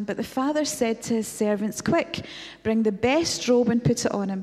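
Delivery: lively storytelling read of the homecoming; story narration. A narrator's reading. Preacher narrates the prodigal's homecoming, as storytelling. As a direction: tell the homecoming like a story to the congregation. Reads a retold scene as story.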